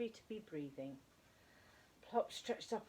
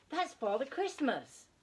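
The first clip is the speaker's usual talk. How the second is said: higher, louder, slow delighted cry; excited shriek; 8 semitones higher, 8 dB louder than usual. A narrator's reading. Plop spots Father Christmas below and cries out. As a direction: burst out with excitement. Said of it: "shrieked Plop".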